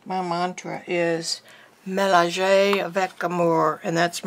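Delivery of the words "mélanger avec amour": cheesy French accent; cheap French accent. Real, not acted. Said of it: "my cheap-ass French accent".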